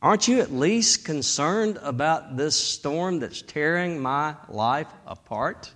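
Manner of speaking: soft, pleading inner voice; half-voiced secret prayer of doubt; inner plea. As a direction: hush it like a private thought to God. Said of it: "But you're thinking".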